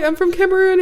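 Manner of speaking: high-pitched, put-on friendly answer; mock cheery reply. Answering the man at checkout, mock cheery. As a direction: play back a perky, high small-talk reply.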